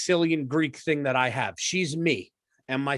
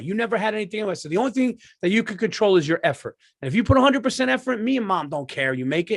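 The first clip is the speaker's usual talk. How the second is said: pep talk; 3 semitones higher than usual. Retold or imitated. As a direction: fire her up like a coach. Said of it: "I give her a pep talk".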